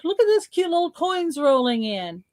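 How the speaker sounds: money gushing like an eager host, pitched high; voice of money calling. Pretend. Money calls its coin friends to the party, high excited voice. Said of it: "It's calling".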